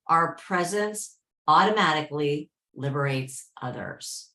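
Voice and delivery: measured, deliberate reading with long pauses; inspirational reading. Acted. Host reads a favourite quote to the group, inspirational reading. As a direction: read it out phrase by phrase, leaning on key words.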